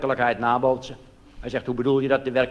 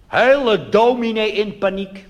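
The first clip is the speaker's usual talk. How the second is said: slow, high, drawn-out panic; a hint of a panicking preacher; mock panic; 6 semitones higher, 4 dB louder, slower than usual. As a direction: play the flustered minister. Minister in a panic.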